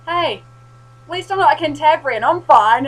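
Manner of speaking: high, loud mock-defiant retort; retold cheeky retort. Zombies laughing as she quips back, loud and high.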